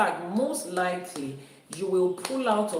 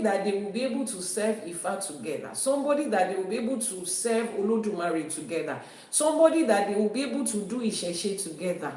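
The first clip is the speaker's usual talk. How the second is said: brisk, insistent repeated lines, each hitting "together"; emphatic repetition; faster than usual. Shown as a demonstration. Preacher to listeners, emphatic urging that "together" matters most. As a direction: drive the "together" home every line. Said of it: "Emphasis on that part".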